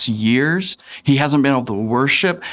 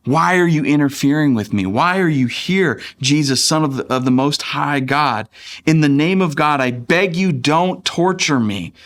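raised, pleading read of a tormented man, short of a scream; mild mock shriek; 4 semitones higher than usual. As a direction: plead higher without really shrieking. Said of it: "shrieking the top of his lungs".

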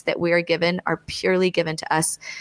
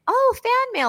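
mock delight. Mock delight at hate mail.

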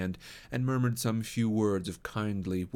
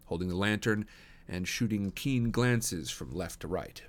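ordinary delivery

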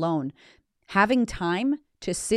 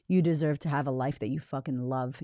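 ordinary talk

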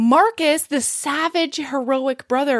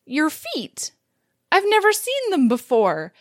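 cute; 3 semitones higher than usual. Retold or imitated. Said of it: "she's so fucking cute".

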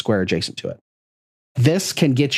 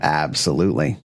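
slick used car salesman; 6 semitones lower than usual. Pretend. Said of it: "do that in your used car salesman voice".

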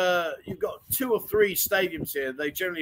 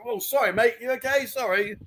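mock apology; 6 semitones higher than usual. Acts out apology to passer-by.

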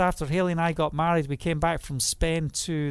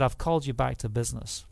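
God's voice; 5 semitones lower, 4 dB quieter, faster than usual. Retold or imitated. God's voice quoted.

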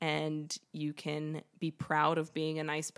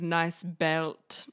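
put-on German accent; 5 dB louder than usual. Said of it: "because of the German accent".

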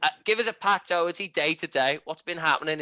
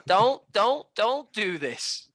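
playing the wounded partner; mock hurt spouse. Husband-and-wife bit with the co-host, mock pleading.

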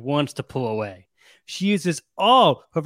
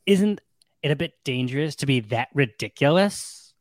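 put-on Valley Girl voice. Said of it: "the Irulan Valley Girl voice".

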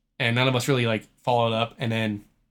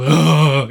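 mock groan; 3 semitones higher, 11 dB louder than usual. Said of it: "instead of his, like".

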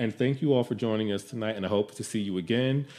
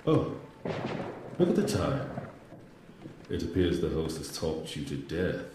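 booming arrogant alien overlord; 5 semitones lower, 4 dB quieter than usual. Acted. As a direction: gloat over the puny humans. Villain outro voice.

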